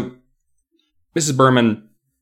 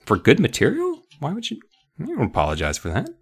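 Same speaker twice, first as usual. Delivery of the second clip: sneering dummy voice; 7 semitones higher, 6 dB quieter, faster than usual. Acted. Dummy talks back.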